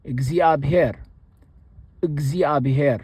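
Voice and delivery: እግዚአብሔር said with the sixth order uh vowel; Amharic word for God. Shown as a demonstration. Teacher demonstrating the word for God. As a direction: pronounce እግዚአብሔር carefully, syllable by syllable. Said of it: "the word for God".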